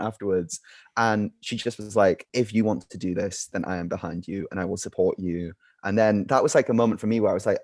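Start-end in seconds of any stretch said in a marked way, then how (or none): 2.3-5.5 lower, softer, reassuring retold promise; quietly earnest, measured reassurance; supportive. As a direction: quote a parent calmly pledging support. Mum's supportive talk retold.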